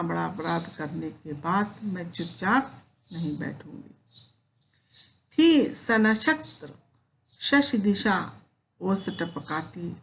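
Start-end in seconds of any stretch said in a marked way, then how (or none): 5.4-9.9 slow poem recitation. Acted. Teacher reciting the night scene from the poem, slow recitation. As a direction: read the night verse slowly.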